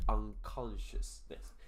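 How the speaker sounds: "unconsciousness" drawn out slowly, part by part; slow enunciation. Shown as a demonstration. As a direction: stretch out "unconsciousness" with small breaks between parts. Word repeated slowly for the learners.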